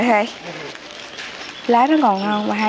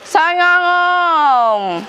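street vendor call; 6 semitones higher, much slower than usual. Real, not acted. Vendor calling out to passersby.

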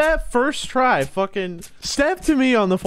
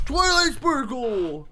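slow, high dramatic summon; summoning call; 9 semitones higher, slower than usual. Acted. Gamer summoning Twilight Sparkle, slow high dramatic call. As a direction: call out the name like casting a spell.

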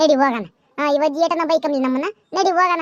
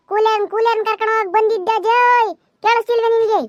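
high, exasperated holler; shouting at deaf granny; 5 semitones higher than usual. Acted. Repeating the errand to deaf granny, exasperated shouting. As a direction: call it into a deaf ear, stretching the end. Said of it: "ಅದ್ಯಾಕಮ್ಮ ಹಂಗರುಸ್ತೆ ಕಿವಿ ತಕ್ಬಂದು".

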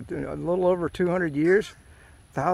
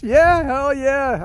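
slow, louder, higher drawn-out "hell yeah"; emphatic hell yeah; 9 semitones higher, 7 dB louder, much slower than usual. Real, not acted. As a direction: relish the envy, stretching each word. Jealous of fisherman, laughing.

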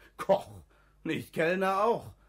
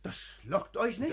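laughing; 3 semitones higher than usual. Acted. Beide lachen über Zinsen.

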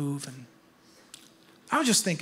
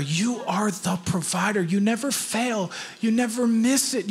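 public prayer. Real, not acted. Pastor praying over the offering, fervent public prayer.

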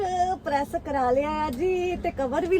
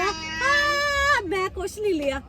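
mock whine; 3 semitones higher, much slower than usual. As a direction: fake crying whine. Mock lament, cry heard.

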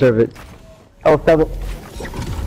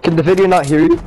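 voice crack; 2 semitones lower than usual. Real, not acted. Asking whether the video can hear, voice cracking at the end. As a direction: let the voice jump and crack on "you". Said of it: "That was a voice crack".

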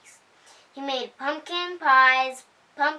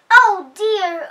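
panicking pig; 7 semitones higher, 10 dB louder than usual. A narrator's reading. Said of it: "cried the pig".

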